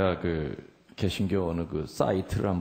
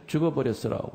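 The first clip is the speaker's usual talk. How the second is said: raised-pitch Jeolla accent; Jeolla dialect; 5 semitones higher than usual. Shown as a demonstration. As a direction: say it like a Jeolla local. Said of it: "전라도 말로 뭐라 그래요?".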